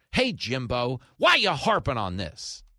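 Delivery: a hint of a whiny nagging listener; lightly voiced heckler; mock listener voice. Host mocking a listener who asks why it matters, lightly whiny. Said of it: "That's my impression of you".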